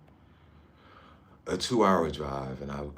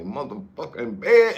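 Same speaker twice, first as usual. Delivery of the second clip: slow, hammed-up mock swearing at the bed, higher and louder; mock cussing; 7 semitones higher, 9 dB louder than usual. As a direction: pretend rage at a stubbed toe, drawn out. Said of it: "Then you can start cussing".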